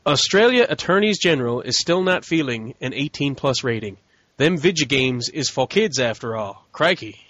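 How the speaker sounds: put-on a barely-there Australian accent, half-hearted; bad Aussie accent. Reading Australian news, faint mock Australian accent. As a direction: toss in a weak Australian twang. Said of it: "That was the worst Aussie accent ever".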